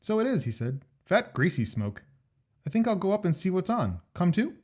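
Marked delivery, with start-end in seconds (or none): 0.0-0.4 higher, eager Jack; Jack's voice. Acted. Jack's voice in story. 1.0-4.6 higher, eager Jack; Jack's voice. Acted. Jack's voice in story.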